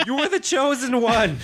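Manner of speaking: high-pitched anguished movie-quote cry; retold scream. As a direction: imitate a dramatic scream from a balcony. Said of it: "to scream that at passing by employees".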